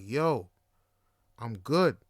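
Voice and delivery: low, measured refusal with a pause after "Yo"; retold refusal, voice dropped, patience thinning; firmer refusal. Turning down the weed as his tone changes, low and firm. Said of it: "my tone starts changing".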